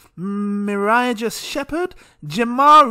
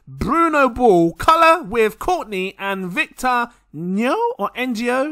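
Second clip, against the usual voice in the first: ordinary delivery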